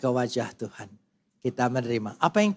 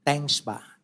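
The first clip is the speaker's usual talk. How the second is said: expressionless. Retold or imitated. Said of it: "itu anak, tanpa ekspresi".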